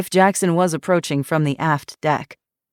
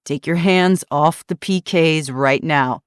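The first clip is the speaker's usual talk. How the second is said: firm order. Acted. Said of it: "Eli ordered".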